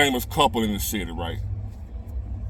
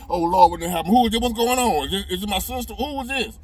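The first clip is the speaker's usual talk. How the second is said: scared panic; 8 semitones higher than usual. Retold or imitated. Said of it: "I'm scared, panicking".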